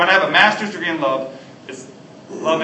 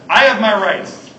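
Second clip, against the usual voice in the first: indignant demand; 5 semitones higher, 8 dB louder, slower than usual. Retold or imitated. Demanding customer at counter.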